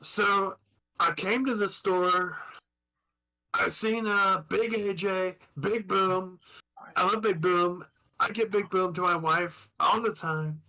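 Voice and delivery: lightly voiced Trump rambling; a hint of Trump boasting; Donald Trump impression. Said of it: "that was Donald Trump".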